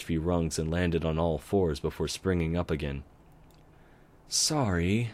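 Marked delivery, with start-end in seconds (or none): 4.3-5.1 sighed. Acted. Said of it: "Twilight sighed".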